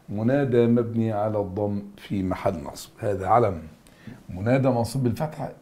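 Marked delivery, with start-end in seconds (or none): 4.3-5.5 offered with a questioning lift; wrong answer, mock suggestion. Shown as a demonstration. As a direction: float the wrong answer as bait. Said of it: "إجابة غلط".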